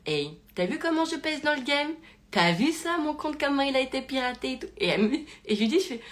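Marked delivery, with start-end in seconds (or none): 0.1-4.7 lightly acted cool delight; playfully unbothered. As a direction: imitate an amused friend who is totally unfazed. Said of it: "hyper, euh, marrante, calme, posée".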